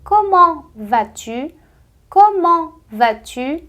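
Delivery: Comment vas-tu? slowly, rising; slow informal demo. Shown as a demonstration. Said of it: "você vai dizer". (Comment vas-tu? devagar)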